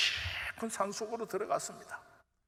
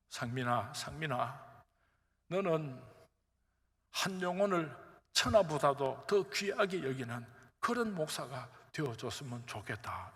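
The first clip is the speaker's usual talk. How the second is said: God's gentle voice; 3 semitones lower than usual. Retold or imitated. God speaking gently to pastor.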